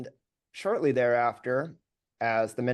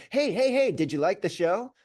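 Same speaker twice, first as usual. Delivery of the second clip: high, loud eager call; eager fishing for praise; 8 semitones higher, 3 dB louder than usual. Retold or imitated. Young singer pestering the audience after a show, high and eager. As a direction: chase the crowd for approval. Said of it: "me going".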